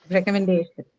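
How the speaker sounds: recommendation with stress on DAY, falling after. Shown as a demonstration. Teacher repeats recommendation for the class, stressing DAY. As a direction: put the weight on DAY in recommendation. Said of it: "Day is the syllable that is stressed".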